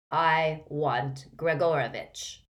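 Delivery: slow, menacing dark-wizard voice; cold dark lord. Acted. Dark wizard demanding the wandmaker, slow and cold. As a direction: lay each word down slow and cold.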